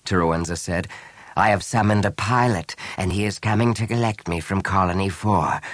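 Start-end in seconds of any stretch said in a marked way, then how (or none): 1.3-5.6 grand, drawn-out villain speech. A narrator's reading. Terowenza aiming the blaster at Han, gloating. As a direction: build slowly to a triumphant farewell.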